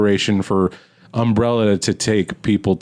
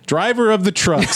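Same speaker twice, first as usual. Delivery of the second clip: higher-pitched put-on stereotype voice; mock trucker; 9 semitones higher than usual. Co-host parodies a stereotypical truck driver, mock self-important. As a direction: send up the stereotypical trucker's phrase.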